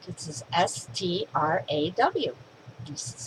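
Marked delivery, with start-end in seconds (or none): 0.5-2.4 slow spelling. Retold or imitated. Kid spells letters out.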